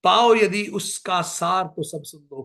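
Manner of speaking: a hint of the grieving queen in poetic recital; recited Kaikeyi lament. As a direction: declaim as Kaikeyi pleading to be heard. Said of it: "Kaikeyi कहती है".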